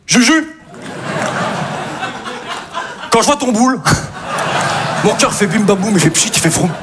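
comic love poem recited; mock poem recital. Comic recites a silly love poem to Juju.

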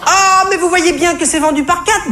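very high, irritated squawk; shrill yapping cashier. Retold or imitated. Comedian mimics the cashier yapping at a customer, high and annoyed. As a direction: yap it out like an annoyed shop girl. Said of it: "glapit-elle au sortir d'un soupir agacé".

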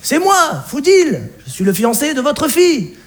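high-pitched, flustered plea; mildly panicked self-introduction; flustered pleading. Acted. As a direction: try to calm her down while rattled. Fiancé pleads with alarmed mother.

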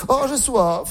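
breathy come-on moan of thirst; exaggerated sexy thirst; sultry sigh. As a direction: play it as a seductive sigh. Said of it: "peut-être pas à ce point-là".

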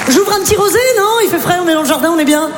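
high, sing-song brunch hostess; chirpy hostess. Acted. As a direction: offer the rosé all sweetness. Imite une hôtesse de brunch. (hôtesse de brunch enjouée, voix plus aiguë)

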